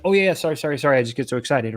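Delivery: mock-apologetic, tumbling over the sorrys; flustered apology. Prospect backing off to the salesperson, flustered and apologetic.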